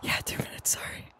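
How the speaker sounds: soft breathy whisper into the mic. Real, not acted. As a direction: whisper so no one hears. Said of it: "I have to whisper for two minutes".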